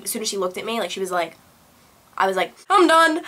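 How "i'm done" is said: loud, high retold outburst; exasperated outburst. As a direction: blurt it out, pitched up and louder. Retelling her reaction to hives.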